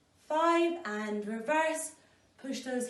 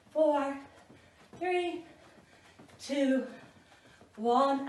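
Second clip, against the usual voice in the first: aerobics instructor. Real, not acted. Counting down reps in workout.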